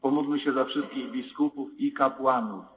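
intoning the prayers of the faithful; liturgical prayer. Acted. Leads the creed and prayers.

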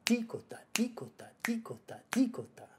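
ticota with the first T hit hard, whispered; accent the T of ticota, airy; stress on T. Shown as a demonstration. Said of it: "a stress on T".

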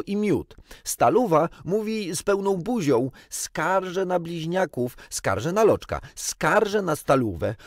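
put-on loud, high-pitched children's complaints; tattling children. A narrator's reading. Children telling on one another at table, tattling. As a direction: tell on each other, high and loud. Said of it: "Nienawistne skarżenie zaczęło się na nowo".

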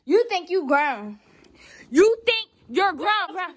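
high, loud scolding; indignant yelling at a sister; angry confrontation. Real, not acted. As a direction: shout her down.

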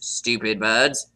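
a sneering aside, barely voiced; scornful whisper. Parrot whispering an insult about parakeets. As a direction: whisper it under your breath, low and scornful.

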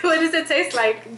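asking through laughter; laughing question, pitch up. Real, not acted. Laughing at sister's reaction.

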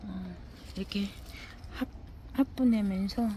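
ordinary talk, nothing marked

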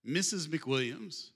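slow reveal. Shown as a demonstration. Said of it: "All right, are you ready?".

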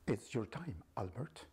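sinister angel of death; menacing otherworldly whisper; evil voice. Acted. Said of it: "the voice is like an evil voice".

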